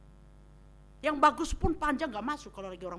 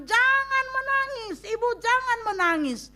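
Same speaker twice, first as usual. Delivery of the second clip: Jesus comforting the widow; 10 semitones higher, 5 dB louder than usual. Retold or imitated. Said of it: "Tuhan Yesus katakan".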